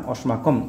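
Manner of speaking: অস্মাকম with the last o dropped; no final vowel. Shown as a demonstration. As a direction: end অস্মাকম on a closed m. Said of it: "এখানে শেষে অ আসছে না".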